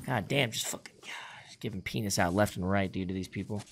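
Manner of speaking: hushed breathy brag; whispering. Real, not acted. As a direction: whisper it to yourself. Quiet brag after kills.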